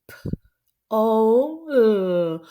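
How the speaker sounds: letters called out loud together; loud spelling along. Shown as a demonstration. Teacher asks kids to spell with her, loud. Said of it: "Do it with me".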